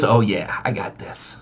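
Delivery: tight, low, almost voiceless boast; strained macho murmur. Retold or imitated. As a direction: grit it out under pain. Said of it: "He's just like this".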